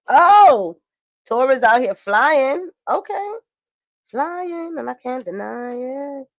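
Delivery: amazed at what the card shows; surprised delight. Real, not acted.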